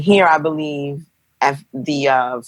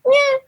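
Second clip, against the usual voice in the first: tiny high newborn squeak, much higher; baby noise. Retold or imitated. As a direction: imitate a newborn's little squeak. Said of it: "you know, little sounds".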